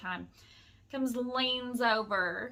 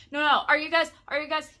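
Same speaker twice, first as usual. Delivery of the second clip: loud, higher mock pestering; retold interrupting; 5 semitones higher, 9 dB louder, much faster than usual. Man keeps talking over the woman, loud mock interrupting. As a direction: imitate someone butting in repeatedly. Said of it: "won't let me speak".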